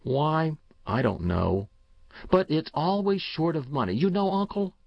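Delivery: put-on a boy confessing what haunts him; troubled boy. Boy Paul, uneasy.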